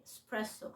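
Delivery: "إسبريسو" with a barely-there first e, spresso; correct pronunciation. Shown as a demonstration. Teacher repeating the right word, "إسبريسو" softly as spresso. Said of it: "ولكن هي النطق الصح".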